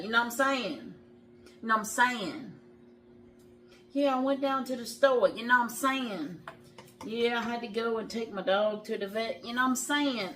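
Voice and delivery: a mocking imitation of a friend's catchphrase; mocking the friend who ended every sentence that way; imitating his friend. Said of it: "we always say it like he did".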